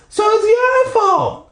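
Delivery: slow, high, whining accusation; Brandy blaming Mom in a whine; whiny blame. Acted. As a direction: drag it out like a spoiled kid.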